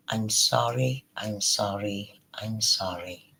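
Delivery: slow, soft imitation of crying; retold tearful apology. Imitating the crying woman seeing Frank, mock tearful. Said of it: "and she's crying".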